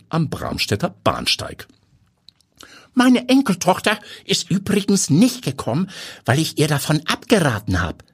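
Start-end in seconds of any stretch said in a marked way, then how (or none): 2.9-8.1 high grandpa voice, offhand; casual old man. A narrator's reading. Grandpa telling Timo about his granddaughter, casual high old-man voice. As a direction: mention it in passing as an old man, pitched up. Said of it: "erklärt der Alte beiläufig".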